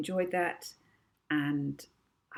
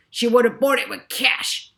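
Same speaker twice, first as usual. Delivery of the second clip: loud, higher insistent push; pushy professor; 7 semitones higher, 11 dB louder than usual. A narrator's reading. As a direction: lean on her hard. Villain professor pressing clerk.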